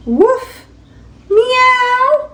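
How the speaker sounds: high yippy woof then squeaky meow; high cartoon animal sounds; puppy and kitten noises. Puppy barks, kitten mews.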